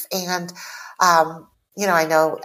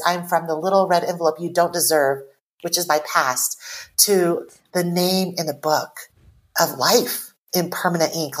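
poem line reread. Shown as a demonstration. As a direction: savor "little red envelope" gently. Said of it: "the last line is".

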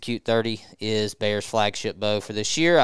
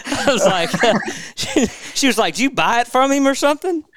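talking through real laughter; can barely get words out laughing; 12 semitones higher, 4 dB louder than usual. Real, not acted. Host cracks up retelling the joke.

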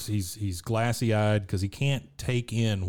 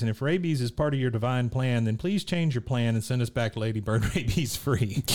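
imitating Luann praying; 3 semitones higher than usual. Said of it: "she's obviously praying".

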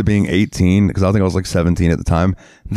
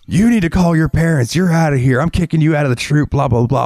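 higher, mock stern scoutmaster voice; imitating scoutmaster; 8 semitones higher than usual. Scoutmaster telling the boy to call his parents, mock stern and higher. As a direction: play the troop leader throwing him out, mockingly. Scoutmaster kicks him out, retold.

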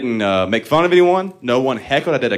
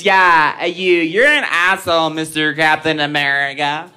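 angry lady; 4 semitones higher than usual. Retold or imitated. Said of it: "Then she goes".

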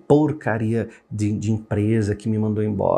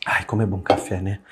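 savoring coffee; 5 semitones lower than usual. Real, not acted. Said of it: "golinho de café".

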